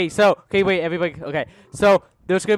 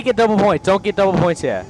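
urgent calling out; 4 semitones higher, 4 dB louder than usual. Real, not acted. Urgently directing teammates in game.

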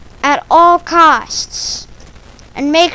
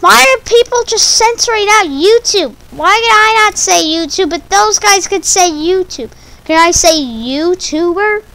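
exasperated rant; 6 semitones higher, 5 dB louder than usual. Real, not acted. Ranting at YouTube censorship.

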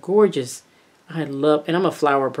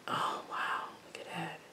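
whisper; 16 dB quieter than usual. Real, not acted.

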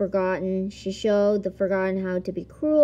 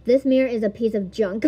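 villain read; 2 semitones higher, 4 dB louder, faster than usual. Shown as a demonstration. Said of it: "I'm gonna put".

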